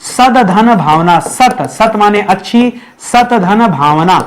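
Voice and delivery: सद धन भावना said slowly, parts apart; slow word split. Shown as a demonstration. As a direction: lay out सत धन भावना piece by piece. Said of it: "सद्भावना".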